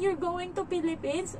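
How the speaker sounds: high mimicked child's question; imitated child near tears. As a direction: mimic a hurt little kid asking. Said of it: "tapos napaiyak na siya".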